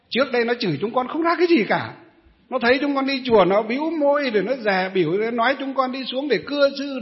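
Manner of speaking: fast, loud complaining; indignant old women. Retold or imitated. Old temple women complaining to the monk, indignant and fast. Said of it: "còn nói với thầy gì?".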